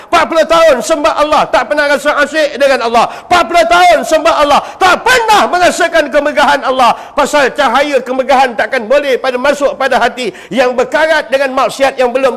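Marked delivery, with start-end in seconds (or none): 3.3-7.0 preaching shout. Acted. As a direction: hammer the line home in a rising rush. Preacher repeats, climaxing. (ulangan berapi-api dan laju)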